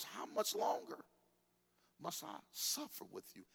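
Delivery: exasperated Jesus. Acted. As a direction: sigh it out, fed up. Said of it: "he got aggressive".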